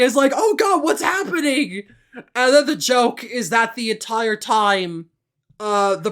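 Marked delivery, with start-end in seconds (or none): 0.4-1.8 mild imitation of a frightened scream; mock panicked scream. Imitating Ranma as the shadow approaches, mild mock panic. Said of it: "he starts screaming".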